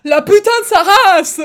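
loud, high raging shout; hateful French curse. Retold or imitated. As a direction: spit the insult in mock fury. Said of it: "the hate in his voice".

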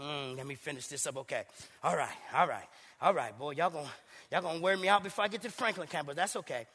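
low, soft off-mic aside; quiet aside. Real, not acted. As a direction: mumble to yourself about the time. Aside about time, worn out.

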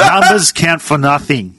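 slow, weighty proverb delivery; slow solemn quote. Pretend. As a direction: lay it down slowly like a sage. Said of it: "repeats quote slowly for effect".

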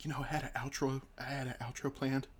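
hurts to talk. Real, not acted. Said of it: "it hurts to talk".

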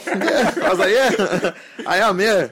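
high, giggly playing along; laughing agreement. Agreeing he is a famous actor, laughing agreement.

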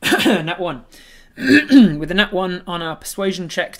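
loud, high, slowed groan of defeat; dismayed outburst. Real, not acted. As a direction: announce the failed roll, aghast. Rolled a natural one.

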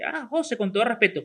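casual, tossed-off remark; a la ligera. Shown as a demonstration. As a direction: say it lightly, in passing. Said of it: "así a la ligera". (dicho como si nada, a la ligera)

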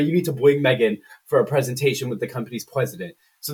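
R turned to W in "bring" and "president"; mock speech impediment. Boss requesting a company presentation, R mimicked as W in "bring". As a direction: imitate a speech impediment, saying "bring" as "bwing", "president" as "pwesident". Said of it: "'cause he has a speech impediment".

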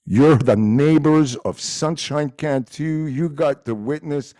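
loud, drawn-out greeting; shout-out. Real, not acted. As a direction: call out slowly to the neighbors. Giving requested shout-out to neighbors.

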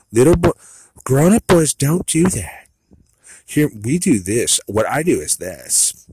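high, loud, slow talking-down voice; mock condescending mom. Mocking the woman at the meeting, high and slow like a scolding mom. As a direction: lecture him like a little boy. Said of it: "She's trying to mom me".

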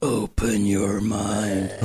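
slow, drawn-out movie-line delivery; lightly voiced sci-fi movie quote; Total Recall movie quote. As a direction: stretch it out like the film line. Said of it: "go watch Total Recall".

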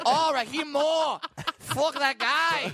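high, loud, drawn-out mock fury; mock outraged rant. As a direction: yell it like a hammed-up furious football bettor. Imagined Korean driver raging at football.

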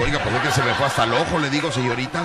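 fast, laughing complaint to the nurse; patient laughing as he protests the swab reached his eye. Retold or imitated. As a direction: blurt it out through laughter.

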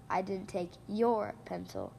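"your" weighted, the line read slowly; slow down and lean on "your", someone else's pencil; stress on YOUR. Shown as a demonstration. Host demonstrating stress for listeners, weight on "your". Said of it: "a different stress word each time".

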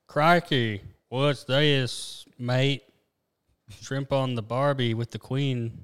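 put-on lightly done Australian accent; a hint of a cartoon Aussie; improper Australian accent. A friend joking about an Aussie finding the jet, in a light Australian accent. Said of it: "improper accents".

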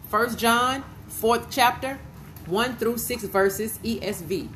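slow, with rising ends on each part; dictating a reference. Real, not acted. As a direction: repeat it slowly for note-takers. Repeats the reference for listeners.

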